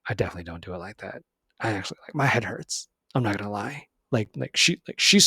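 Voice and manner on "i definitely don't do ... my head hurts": deflated mutter. Real, not acted. Sighing confession.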